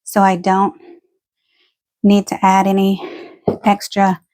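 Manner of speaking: breathless after running stairs; talking while catching breath. Real, not acted. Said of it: "Sorry, I'm out of breath".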